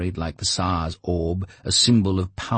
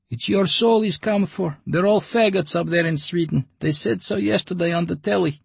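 much higher, louder put-on voice; suspicious old gossip; 13 semitones higher, 3 dB louder than usual. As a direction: grumble it like a station gossip. Another dweller replies.

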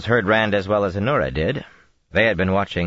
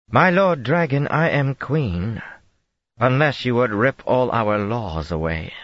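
higher, slow on I am Queen; insistent queen; 7 semitones higher than usual. A narrator's reading. Queen pleading her rights before silent Rand, insistent. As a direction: press the claim firmly.

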